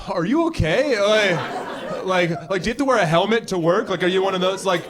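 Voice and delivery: incredulous, slightly pitying concern; mock concern. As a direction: ask as if something is badly wrong. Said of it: "people are like".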